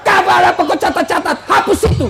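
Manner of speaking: mock angry yell. Husband ordering PLN man to erase the record, mock anger. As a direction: play a furious husband barking orders. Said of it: "suaminya marah-marah sama P L N".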